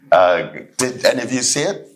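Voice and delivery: lightly voiced polite gentleman, asking around; a mild put-on voice of a polite man asking about a lost item; polite white man. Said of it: "and he says".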